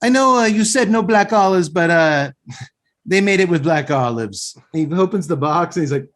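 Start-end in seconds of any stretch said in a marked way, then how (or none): 0.0-4.6 lightly voiced, higher-pitched pizza man; a hint of the little Italian counter guy, pitched up. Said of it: "the little Italian guy's like".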